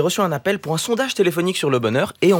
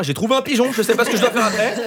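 lightly voiced flustered surveyor; 7 semitones higher than usual. Voices the surveyor's panicked thoughts.

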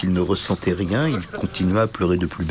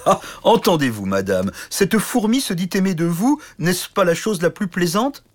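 moqueur amusé; 10 semitones higher than usual. Acted. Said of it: "éclata de rire".

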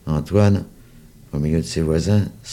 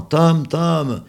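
high loud call across the hill; children searching for their dog, calling; 10 semitones higher, 5 dB louder than usual. Acted. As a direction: shout for the lost dog. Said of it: "d'autres enfants".

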